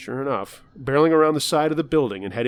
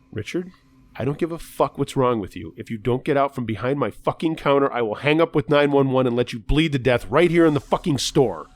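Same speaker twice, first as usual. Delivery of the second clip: angry threat; 4 dB louder than usual. Acted. Clerk threatens Richard behind counter.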